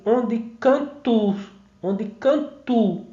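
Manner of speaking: "canta o" merged into a long "can-tu"; slow "onde canto", the two vowels melted into one; fused vowels. Shown as a demonstration. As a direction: run "canta o" together as "canto", drawn out. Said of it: "Fica assim".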